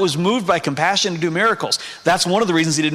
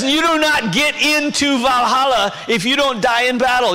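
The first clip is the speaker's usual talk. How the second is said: higher-pitched mock Spanish accent; Odin, bad Spanish accent; 6 semitones higher than usual. Preacher voices a cold god barring Valhalla, bad Spanish accent. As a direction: lay down the rule in a badly faked Spanish accent. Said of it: "Odin speaks in a bad Spanish accent".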